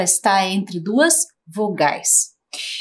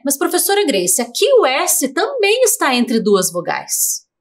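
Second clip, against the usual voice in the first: lightly voiced pupil, pitched higher; pupil's objection; 5 semitones higher than usual. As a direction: raise the pitch to mimic a pupil querying the teacher. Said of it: "Aí você vai me perguntar".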